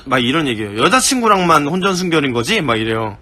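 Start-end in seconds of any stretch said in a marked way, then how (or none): 0.8-2.6 sarcastic. Retold or imitated. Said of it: "저한테 존나 비꼬면서".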